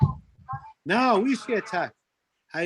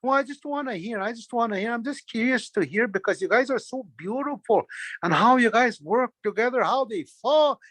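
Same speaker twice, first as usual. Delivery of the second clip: mildly raised, coaxing flattery; buttering them up; 3 semitones higher than usual. Acted. Trickster buttering up birds to hear their secret, coaxing. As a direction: coax them with eager praise. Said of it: "You are just buttering up those".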